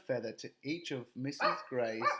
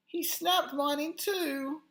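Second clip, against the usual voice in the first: crying out; 14 semitones higher, 5 dB louder than usual. Acted. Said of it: "cried Bumper".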